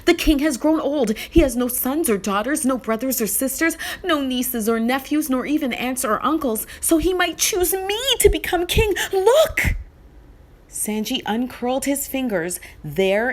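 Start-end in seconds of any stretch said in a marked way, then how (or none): 0.0-9.8 put-on rushing, rising eager boy; excited. Boy telling his mother about the seed, excited. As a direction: tumble the news out in a hurry.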